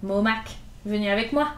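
a hint of gentle command; tender authority. Gavroche taking the little boys under his wing, gently firm. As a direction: protective big-brother tone. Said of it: "accent d'autorité attendrie".

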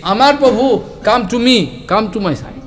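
happy, eager call to come; joyful calling. Retold or imitated. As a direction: call him close with joy. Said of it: "become very, very happy".

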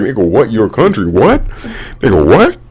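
incredulous rising questions; mock stunned disbelief; retold shock. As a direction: replay your baffled double take. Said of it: "it shocked the hell out of me".

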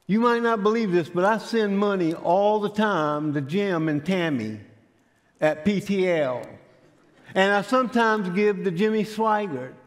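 earnest self-justifying. Retold or imitated. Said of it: "make his case that he was a good Christian".

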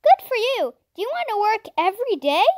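hearty praise, then a quick offer; the doctor. A narrator's reading. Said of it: "and he said".

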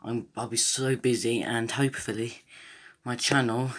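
breathless from running; talking while catching breath. Real, not acted. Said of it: "sorry if I'm out of breath".

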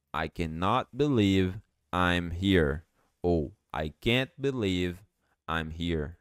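I cannot believe I'm here slow, then with can't; slow model sentence. Shown as a demonstration. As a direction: model both forms slowly. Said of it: "Eu não consigo acreditar".

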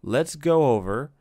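lightly voiced boastful little fairy; cocky sidekick. Drippy boasting to Ollie about fairy eyes, cocky.

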